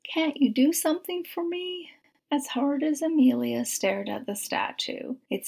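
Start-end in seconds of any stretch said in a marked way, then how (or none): 0.0-1.9 rising, high plea to the saint; pleading. Acted. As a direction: beg the statue, pitch climbing high. Amelia pleading with a statue.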